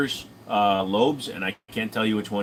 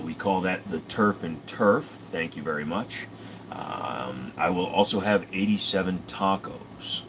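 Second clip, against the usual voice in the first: Ron Swanson impression; 4 semitones lower, 4 dB quieter than usual. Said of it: "a little bit of a Ron Swanson".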